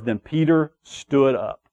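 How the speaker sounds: "Then Peter stood up" said slowly and deliberately; stressed words. Shown as a demonstration. Preacher pointing the congregation to key scripture words, stressed "Then Peter stood up". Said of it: "The reason why I stress the words".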